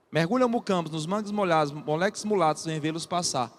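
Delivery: even, bouncing beat sinking in pitch; rhythmic poem recitation. Acted. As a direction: recite in short regular pulses. Teacher recites short-verse stanza.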